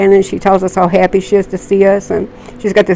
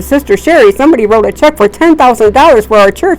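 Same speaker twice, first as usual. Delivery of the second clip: excited; 3 semitones higher than usual. Retold or imitated. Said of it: "all excited".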